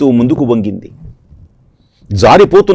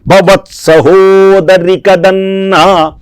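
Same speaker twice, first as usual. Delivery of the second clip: slow, drawn-out plea, pitched higher at the start; pleading sister; 3 semitones higher, much slower than usual. Acted. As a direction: beg your brother for shelter, stretching every word. Devaki begs Kamsa for mercy. (వేడుకోలుగా, నెమ్మదిగా సాగదీసి)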